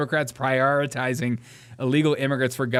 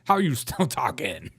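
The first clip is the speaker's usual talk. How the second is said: mock outrage; 3 semitones higher than usual. Voicing congresswoman's angry reply.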